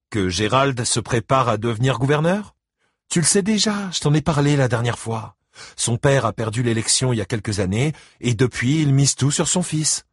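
high, lively explaining; impatient ex-wife. Acted. Christine explains the election to Buddy Lee, high and impatient. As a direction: remind him of what he was told.

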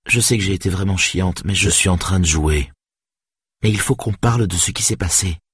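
a lightly voiced young woman, pleading and sorry; Saga apologising. Saga begs Stéphane's forgiveness, lightly voiced and contrite.

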